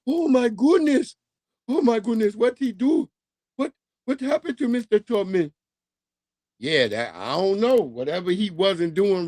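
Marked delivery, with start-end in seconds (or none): 0.1-5.5 mock shock. Shocked African coworkers.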